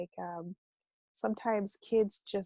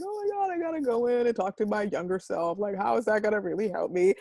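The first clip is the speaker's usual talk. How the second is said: sceptical scoff. Pretend. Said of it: "it sounds a little hokey".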